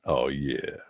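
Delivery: ordinary talk, nothing marked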